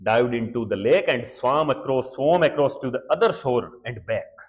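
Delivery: very slow, word by word English reading; slow read-aloud. Shown as a demonstration. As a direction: read each word out slowly for the class. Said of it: "reads English text slowly".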